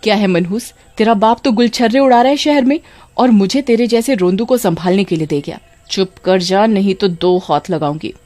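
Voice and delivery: mildly voiced angry scolding of a baby. Kamini scolding the crying baby Bunty, mild anger. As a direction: snap at the child, lightly acted. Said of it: "गुस्से में बंटी को बोलती है".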